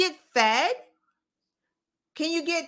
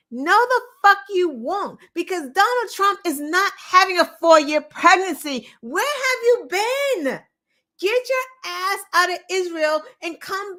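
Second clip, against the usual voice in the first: real indignant anger, pitch up; angry retort; 4 semitones higher than usual. Real, not acted. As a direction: snap back at him, furious. Angry rebuttal to the man.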